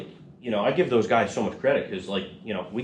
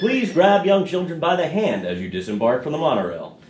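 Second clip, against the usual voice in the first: theme park PA announcer; automated announcement voice; 3 semitones higher than usual. Retold or imitated. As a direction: read it like a monorail safety message. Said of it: "I wanna be the voice in, like, the airport".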